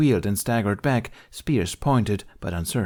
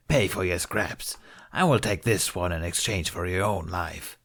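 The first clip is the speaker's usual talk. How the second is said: taunting Hutt. Acted.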